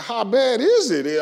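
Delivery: anxious question. Retold or imitated. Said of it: "I said".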